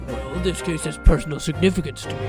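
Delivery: professor voice. Acted. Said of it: "There we go. That's better".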